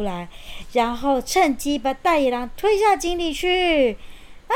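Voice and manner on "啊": death cry. Acted. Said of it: "大野狼一声惨叫".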